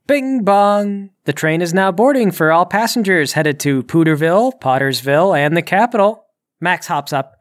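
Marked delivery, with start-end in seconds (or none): 0.1-6.3 train announcement. Acted. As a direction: chime then announcer voice. GM voices train station announcement.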